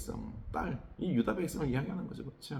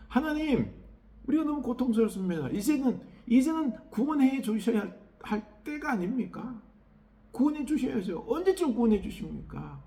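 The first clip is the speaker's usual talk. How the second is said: high, louder anguished plea to God; lamenting plea; 10 semitones higher, 4 dB louder than usual. Acted. Preacher voicing suffering people lamenting to God, high anguished plea. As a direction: cry out begging for rescue. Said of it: "탄식하는 거죠".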